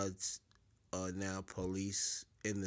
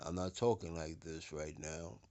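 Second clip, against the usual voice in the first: deeper bass voice; 5 semitones lower, 4 dB quieter than usual. Shown as a demonstration. Speaker shows listeners the bassy tone, lower and softer. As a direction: demo voice dropped lower, a little softer. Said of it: "They want you to say it like I'm talking to you now".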